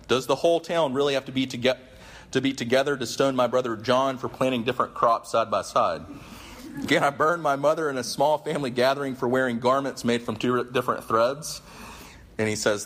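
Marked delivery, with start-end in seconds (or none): 0.1-11.6 higher mock-outraged rant. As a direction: keep the rant rolling. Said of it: "he keeps going".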